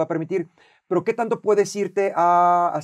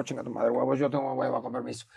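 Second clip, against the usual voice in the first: lazy brush-off; 5 semitones lower, 7 dB quieter than usual. Retold or imitated. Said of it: "yo digo".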